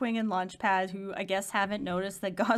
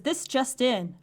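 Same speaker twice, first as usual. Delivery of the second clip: news anchor voice; 3 semitones higher than usual. Pretend. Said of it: "I've always wanted to say that".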